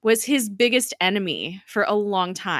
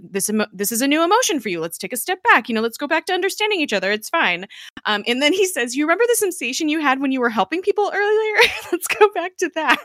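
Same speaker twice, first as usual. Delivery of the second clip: rushed, higher, fast soothing ramble; flustered backpedaling; 8 semitones higher, 3 dB louder, faster than usual. Retold or imitated. Fitz rushing to soothe Ada, flustered and fast. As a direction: hurry to calm her down, tripping over words. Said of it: "stumbling over his words".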